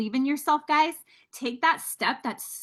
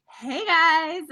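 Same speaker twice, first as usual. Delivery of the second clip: a higher, cutesy fake greeting; 5 semitones higher, 4 dB louder than usual. Greeting her first live viewers in a cute higher fake voice. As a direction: put on a sweet higher voice for the camera. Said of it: "in my cute little fake voice".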